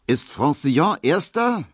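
hoch und laut gerufene Frage; gerufen. A narrator's reading. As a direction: ruft ungeduldig durch den Raum. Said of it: "rief er dann". (Markowski ruft laut und hoch nach dem Rennergebnis)

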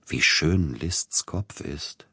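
slow, hushed reverence; reverent. Acted. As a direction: admire the portrait in awe. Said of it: "sagte andächtig".

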